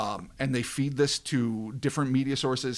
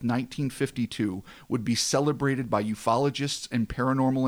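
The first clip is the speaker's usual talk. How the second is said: dramatic story narration. A narrator's reading. Host tells podcast listeners of the nauseating mist, dramatic narration. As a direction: narrate an eerie tale.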